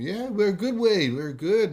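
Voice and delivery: brisk contrast to the slow friend; upbeat reply. Acted. Friends reassure Wade they are good, upbeat. Friends answer the slowed mate.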